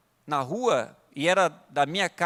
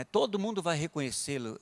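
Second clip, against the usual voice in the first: quietly assured, retold reply; laid-back calm; 2 semitones lower, 4 dB quieter than usual. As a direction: answer hostility calmly and gently. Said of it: "assim, meio tranquilão".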